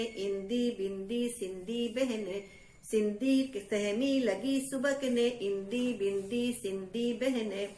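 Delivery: put-on lilting rhythmic chant for kids; sing-song poem recital. Teacher reciting a rhyme to children, sing-song. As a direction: recite it with a bouncy nursery beat.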